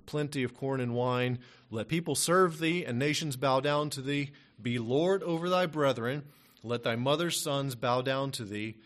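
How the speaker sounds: solemn, measured King James reading; scripture reading. Acted. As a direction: read the blessing like a solemn pronouncement. Reads Bible blessing aloud.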